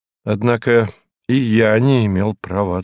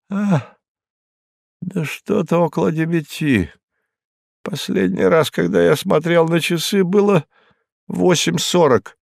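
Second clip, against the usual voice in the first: higher, rattled voice of a frightened man; shaken Hinkus; 8 semitones higher than usual. Acted. Hinkus telling the detective he woke under a table, rattled and higher. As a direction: blurt it out like someone still in shock. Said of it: "Hinkus answering the detective".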